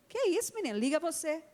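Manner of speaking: high, surprised mock reproach; tease-scold the little girl in disbelief; a mother refusing to make her daughter's call; mock stern mother.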